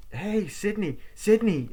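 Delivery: loud, high call across the hall. Retold or imitated. Friend calling across to Sydney, loud high call. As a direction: shout her name to get her attention.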